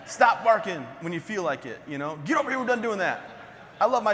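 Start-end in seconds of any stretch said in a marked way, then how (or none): 0.1-1.8 raised-voice order to a dog; mock dog command. Shown as a demonstration. Owner showing how he orders his dog, mock shout. 2.2-3.2 high, raised call to a dog; mock dog scolding. Shown as a demonstration. Owner calling his dog over, mock scolding shout.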